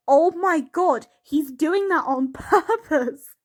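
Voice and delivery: slow, stunned oh my god with a laugh at the end; mock shocked realisation. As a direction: spell out the shock, half laughing. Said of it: "I was like".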